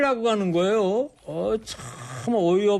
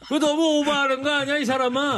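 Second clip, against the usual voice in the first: teasing; 9 semitones higher than usual. Real, not acted. Teasing co-host after rant.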